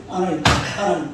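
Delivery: mock indignant protest, slowed on 왜 갈대합니까; the prophet complaining to God in a half-acted indignant voice; prophet arguing with God. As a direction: imitate an angry prophet questioning God. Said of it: "하나님 앞에 따지는 거예요".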